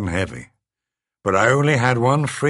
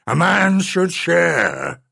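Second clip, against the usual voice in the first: slow creature voice; 10 semitones higher, 5 dB louder, much slower than usual. A narrator's reading. Beast correcting itself.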